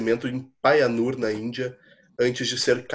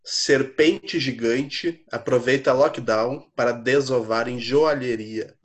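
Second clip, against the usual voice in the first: news headline read; slower than usual. Pretend. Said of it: "prestem muita atenção".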